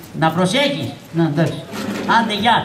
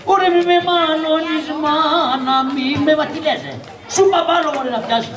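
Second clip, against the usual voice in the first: high-pitched protest to mother; whining protest; 4 semitones higher than usual. Acted. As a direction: complain up high, like a scolded child. Scolded performer protests to mother. (ψιλό παραπονιάρικο ύφος)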